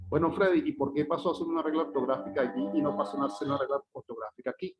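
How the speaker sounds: fast voiced student question; pregunta imaginada. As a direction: rattle it off as a curious student. (pregunta rápida de un alumno)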